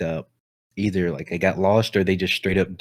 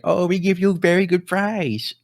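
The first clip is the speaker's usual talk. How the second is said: much higher mock Asian accent, sing-song; 9 semitones higher than usual. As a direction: play the cartoon saleswoman with a mock Asian accent. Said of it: "Asian ladies".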